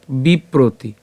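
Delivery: "বিপ্রতি" slowly as bi-pro-ti; careful Sanskrit pronunciation. Shown as a demonstration. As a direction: draw out "বিপ্রতি" syllable by syllable. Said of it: "উচ্চারণটা কেমন হচ্ছে". ("বিপ্রতি" ধীরে ভেঙে উচ্চারণ)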